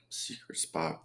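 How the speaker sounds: whispering the clue under his breath; barely voiced, just air. Real, not acted. Reading clue to himself.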